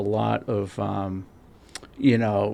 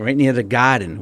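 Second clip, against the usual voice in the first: playful, louder Massachusetts accent; 5 dB louder than usual. Shown as a demonstration. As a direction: lean into the Massachusetts accent on Garden. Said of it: "We get that Massachusetts accent going".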